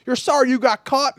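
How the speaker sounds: retold coach's rebuke. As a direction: throw it back like an annoyed coach, acted out. Coach rebukes apologising player.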